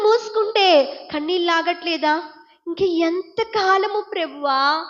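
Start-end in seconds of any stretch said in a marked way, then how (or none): 2.7-4.9 slow, stretched-out plea to God; acted weary weeping. Preacher voices a believer who cannot cope, slow mock-tearful plea. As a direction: imitate a worn-out believer's lament, dragging the words. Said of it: "ఏడుస్తున్నావు ఈ రోజున".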